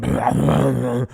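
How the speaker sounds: rumbling mouth-made bass noise; imitated bass noise. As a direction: mimic a sloppy bass player. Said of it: "he's just going".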